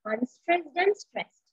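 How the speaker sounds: slow demo of the rhythm; unstressed then stressed. Shown as a demonstration. Teacher to class, showing the iamb: slow stressed contrast. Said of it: "unstressed syllable and a stressed syllable".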